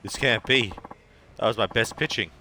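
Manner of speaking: can't believe he lost; stunned disbelief. Acted. Beaten pitcher, stunned disbelief.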